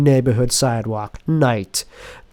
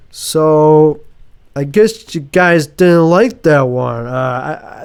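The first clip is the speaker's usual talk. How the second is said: awkward comedian; 3 semitones higher, 3 dB louder, slower than usual. Acted. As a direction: play the flop comic to a silent room. Tim bombing on stage.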